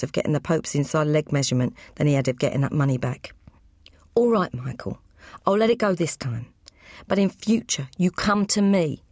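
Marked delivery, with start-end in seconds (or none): 4.2-9.0 a hint of a stern boss laying down the law. Joe quietly settles with Michael.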